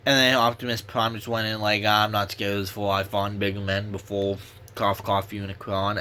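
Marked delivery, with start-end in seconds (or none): 1.8-6.0 heroic speech voice. Retold or imitated. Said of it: "he has that voice".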